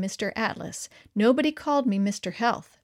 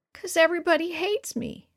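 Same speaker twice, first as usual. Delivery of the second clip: put-on crying little boy; 7 semitones higher than usual. A narrator's reading. Crying first grader voiced.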